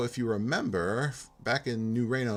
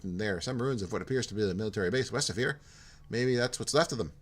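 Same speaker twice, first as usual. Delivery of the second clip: put-on Minnesota accent sliding into a light Irish lilt; Minnesota accent drifting Irish; 3 semitones higher than usual. Jim telling Porto about the Brotherhood, accent drifting Irish. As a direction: let the Minnesota voice wander toward Irish. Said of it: "my Minnesota just turned Irish".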